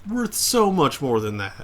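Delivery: slow, teasing repeat of the protest; mocking echo. Player slowly echoing friend's protest. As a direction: parrot it back, drawn out. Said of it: "echoes the friend's protest".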